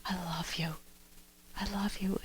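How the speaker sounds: breathy unvoiced whisper, very soft; tender whisper. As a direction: breathe it into a lover's ear. Tender whisper in romantic embrace.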